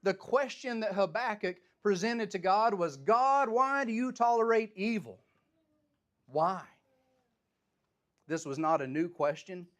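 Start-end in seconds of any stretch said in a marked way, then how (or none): 3.0-6.7 high, loud cry of why to God; loud plea. Acted. Preacher voicing Habakkuk's question, high and loud. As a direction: call the question out to heaven.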